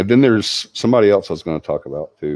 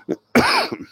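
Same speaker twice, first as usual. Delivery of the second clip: cough turned away. Shown as a demonstration. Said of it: "I should have went like this".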